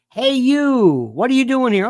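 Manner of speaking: loud, sharp challenge to an intruder; confronting shout. Acted. Homeowner challenging an intruder in a what-if, loud confrontation. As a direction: call out forcefully, challenging a stranger.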